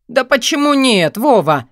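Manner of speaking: high, loud, exasperated protest; irritated question. A narrator's reading. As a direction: demand a reason, annoyed. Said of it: "раздражённо спросил он".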